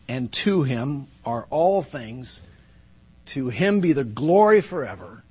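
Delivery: measured, emphatic Scripture recitation; Scripture declamation. Real, not acted. Pastor closing prayer with Scripture, reverent and emphatic. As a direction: declare it as praise, weighting each phrase.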